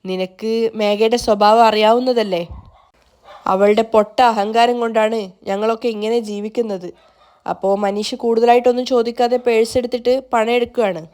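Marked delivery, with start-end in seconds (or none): 0.0-6.9 mild sadness. Acted. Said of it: "സങ്കടത്തോടെ മുത്തശ്ശി പറയാണ്".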